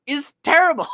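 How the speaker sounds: high, loud, laughing verdict. Real, not acted. Criticizing Sonic's logic to co-host, laughing hard. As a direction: crack up while passing judgment.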